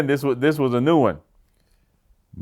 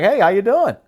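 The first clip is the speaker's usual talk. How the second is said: raised, sing-song hello; imitating a chatty local's hello; friendly Southern greeting; 11 semitones higher, 5 dB louder than usual. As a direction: play the cheerful stranger at the door. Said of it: "But he was like".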